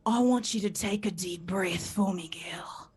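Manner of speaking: hushed, breath-heavy whisper in a mock Australian accent; imitated Australian ASMR. Australian ASMR man coaching his listener to breathe, low mock-seductive whisper. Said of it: "erotic A S M R, comma, accent".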